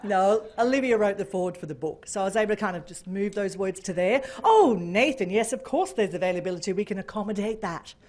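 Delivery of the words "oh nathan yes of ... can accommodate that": careful, composed official phone reply. Retold or imitated. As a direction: start on a big "Oh", then settle into businesslike calm. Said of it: "Gotta be very careful, very official".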